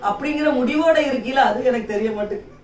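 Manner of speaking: ordinary talk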